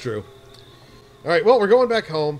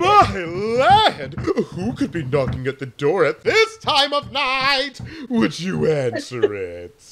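lightly voiced mom, slower; a hint of a doting mother; 2 semitones higher, slower than usual. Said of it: "you do this mother voice".

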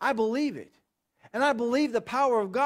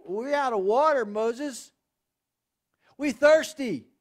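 whining; 3 semitones higher, 4 dB louder than usual. Retold or imitated.

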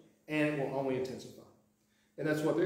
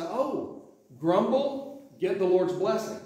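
higher, sing-song mock reasoning; mock naive grumbler; 4 semitones higher, 4 dB louder, slower than usual. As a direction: lampoon the idea, lightly sarcastic. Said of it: "don't read this and say".

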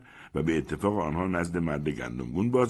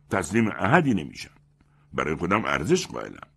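slightly louder, self-important lecture; lightly voiced boastful man; smug proud man; 4 dB louder than usual. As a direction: preach your pride to the room.

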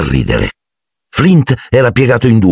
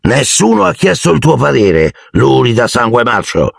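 snapped insult; 6 semitones higher than usual. Acted. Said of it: "sbottò".

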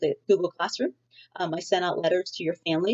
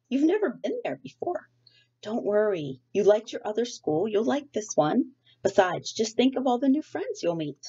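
a hint of a cheerful father, pitched higher; gently jolly persuasion from a patient parent; lightly voiced coaxing dad; 5 semitones higher than usual. Father coaxing Sarah out of bed, lightly voiced and upbeat.

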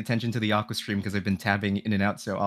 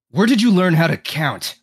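higher, louder mocking question; Knives voice; 6 semitones higher, 6 dB louder than usual. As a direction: sneer it like a taunting rival. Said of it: "Larry asks, Knives of Ash by saying".

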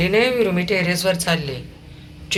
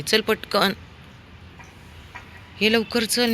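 usual speaking voice

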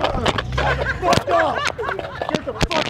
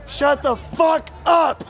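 angry yell; slower than usual. Real, not acted. Heckler yells at preacher.

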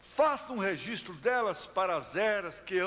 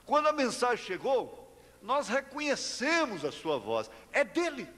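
proclamação de pregador, subindo no agudo; pregação enfática; 6 semitones higher than usual. Real, not acted. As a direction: proclame com convicção, alongando o final. (pregação convicta, voz mais aguda)

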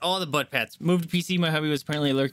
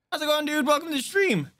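voice crack. Real, not acted. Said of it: "Ignore that voice crack".

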